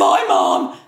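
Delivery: loud, low, offhand bye; shouted goodbye. Retold or imitated. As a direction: toss it back without looking. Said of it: "it'll be like".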